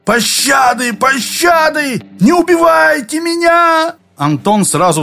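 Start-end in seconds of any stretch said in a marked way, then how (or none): 0.1-0.9 high, strained plea for mercy; begging cry. A narrator's reading. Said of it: "сдавленно проорал". 0.9-2.0 much higher, slow, stretched scream; drawn-out desperate shout. A narrator's reading. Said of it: "сдавленно проорал". 2.2-3.9 very high begging yell; pleading shout. A narrator's reading. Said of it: "сдавленно проорал".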